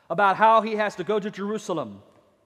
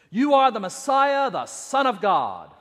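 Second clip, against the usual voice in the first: proclaimed; 5 dB louder than usual. Acted. Peter's profession, loud.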